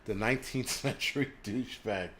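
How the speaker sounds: rereads the viewer's name through a laugh; chuckling as he says it again. Real, not acted. Streamer laughing while reading a viewer's YouTube name aloud. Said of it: "That's a nice one".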